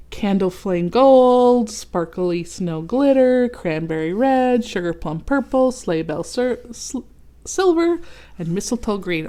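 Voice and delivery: reading the diagram. Real, not acted. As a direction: read each colour out grandly.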